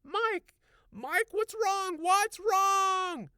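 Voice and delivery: high, loud, alarmed wife's voice; frightened. A narrator's reading. Wife running to her husband, frightened high call. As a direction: ask what's wrong in a panic. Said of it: "a frightened expression on her face".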